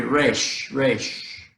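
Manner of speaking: Resh with a long A, like "raysh". Shown as a demonstration. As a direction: draw the vowel of Resh into "ay". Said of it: "more of like a long A sound".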